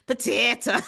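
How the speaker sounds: potato said as "pa-tee-ta" in a put-on Irish voice; mock Irish accent. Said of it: "Give me some Irish".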